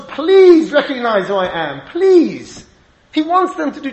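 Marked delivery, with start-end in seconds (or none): 0.0-2.6 mild pleading cry. Retold or imitated. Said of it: "Yosef screams at the brothers".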